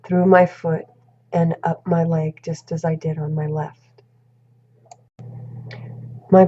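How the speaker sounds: calm, unhurried body scan narration; gently guided relaxation with long pauses; guided meditation. Shown as a demonstration. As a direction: talk through each body part, pausing between phrases. Leads herself through body scan meditation.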